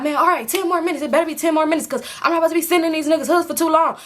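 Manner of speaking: high, rattled-off mock griping; talking too much. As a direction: imitate him rambling on without a break. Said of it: "he just talking so much".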